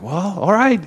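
a hint of amused indulgence. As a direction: give in to an impulsive friend, mildly amused. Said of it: "he's, like, amused".

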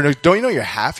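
lightly acted needling question; snarky cousin. Cousin insisting she is half Korean, mildly snarky. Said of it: "snarky and, and mean".

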